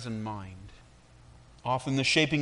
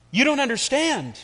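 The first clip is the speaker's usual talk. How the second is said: high, loud voice of the teacup; storybook teacup voice; talking teacup; 11 semitones higher, 4 dB louder than usual. A narrator's reading. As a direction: voice the teacup up high and bright with feeling. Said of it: "it said".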